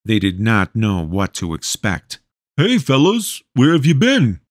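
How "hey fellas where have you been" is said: much higher, sweet innocent voice; unnaturally high and innocent. A narrator's reading. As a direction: play the innocent, pitched way up. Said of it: "Blake's voice was unnaturally high and innocent sounding".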